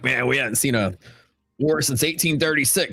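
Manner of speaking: mock Texan rancher itching for a fight, calling Ma for the shotguns; Texans ready for war. Texan mocking would-be invaders, hammed-up holler. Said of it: "Texas is like".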